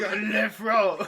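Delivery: put-on botched Scottish accent that slips into French; a laughing, French-tinged try at Scottish; French-sounding Scottish. Guest attempts Scottish on a whisky name, badly French-sounding. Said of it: "That was French a little bit".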